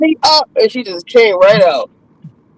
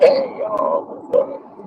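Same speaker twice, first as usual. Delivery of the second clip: giddy greeting; 12 semitones higher, 8 dB quieter, much slower than usual. Retold or imitated. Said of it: "once I got the epidural".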